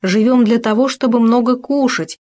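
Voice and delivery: «много кушать» pitched high for emphasis; emphatic. A narrator's reading. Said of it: "подчеркнул он".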